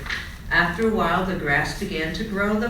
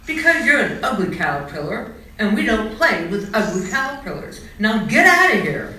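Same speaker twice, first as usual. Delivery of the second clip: rude rejection; 2 semitones higher, 6 dB louder than usual. Acted. Rabbits reject Charlie rudely.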